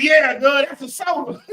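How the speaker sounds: high, put-on drawled reply; retold country reply. Host retelling his soda answer to the producer in a high put-on voice. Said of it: "I said".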